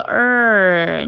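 儿 drawn out with tongue curled back; held r-sound. Shown as a demonstration. Teacher pointing out the ending to students, long held 儿. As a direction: hold 儿 as a long r-coloured vowel. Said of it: "听到我后面那个儿那个音".

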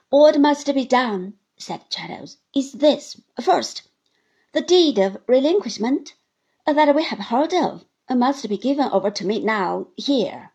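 loud, deliberate terms; firm Traddles. Acted. Traddles sets terms for Uriah, firm and loud. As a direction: lay down the law.

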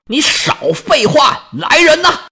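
furious barked command, slow and hard; angry order. Acted. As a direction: bark at your men in rage. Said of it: "赫克托尔火往上撞". (怒吼着下令)

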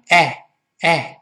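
哎 as a short open "æ"; American vowel. Shown as a demonstration. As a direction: demonstrate the American "æ" for 哎. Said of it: "就是直接发成哎".

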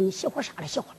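very soft, low near-murmur; barely voiced acted grumble; hushed retort. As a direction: drop right down as the wife answers back. Wife answers in a hushed voice.

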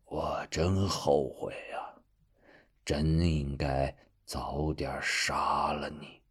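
slow, soft, bitter regret; bitter and weak. Acted. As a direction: spit out regret, defeated. Defeated villain's bitter regret.

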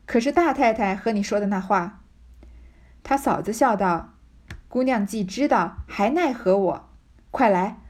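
reading a classic novel passage aloud, voicing the lines lightly. Teacher reads the Red Chamber passage aloud, lightly voiced. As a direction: read the chapter aloud to the class.

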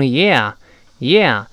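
yeah gliding from "eh" into open "ah"; slow teaching yeah, "eh" opening to "ah"; two-part "yeah". Shown as a demonstration. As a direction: start yeah on "eh", then spread the mouth to "ah". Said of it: "最后把嘴分开读成yeah".

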